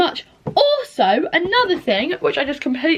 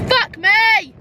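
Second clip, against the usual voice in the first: much higher, a bit louder, real exasperation; frustrated outburst; 11 semitones higher, 4 dB louder than usual. Real, not acted. Fed up after crying all day, real exasperated cry.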